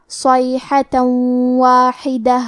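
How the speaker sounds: صیحة واحدہ with the tanween merged into و with a nasal hum; idgham with ghunna. Shown as a demonstration. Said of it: "غنہ اور تشدید کے ساتھ ادا کریں گے". (تنوین کا واو میں ادغام غنہ کے ساتھ)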